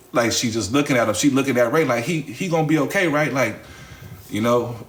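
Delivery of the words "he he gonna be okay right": high, quick anxious question; a touch of panic, hurried and high; worried plea. Retold or imitated. Maya asks Ray in a hurry, high and anxious.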